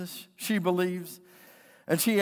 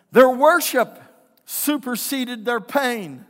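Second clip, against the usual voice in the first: emphatic preaching; 3 semitones higher, 7 dB louder, slower than usual. Real, not acted. Preaches with force.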